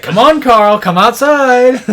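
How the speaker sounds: loud, high-pitched call; drawn-out shout to lure someone outside; Shake calling out. Retold or imitated. Shake luring Carl out for a prank, calling loudly. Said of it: "And Shake's like".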